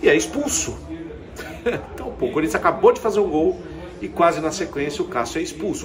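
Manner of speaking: laughing in disbelief at the red card. Real, not acted. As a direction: chuckle through the words.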